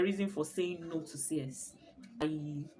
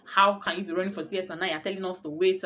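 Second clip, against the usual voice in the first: retold doctor anger; 6 dB louder, faster than usual. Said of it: "She was just angry".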